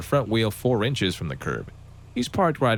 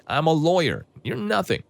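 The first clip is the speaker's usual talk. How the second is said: mock scream; 7 semitones higher than usual. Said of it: "screams at me".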